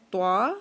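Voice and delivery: heavy توا with tongue on the teeth; full-mouthed توا; Arabic taa. Shown as a demonstration. Teacher models heavy توا. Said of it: "دال اور تا، یہ ایک ہی جگہ سے".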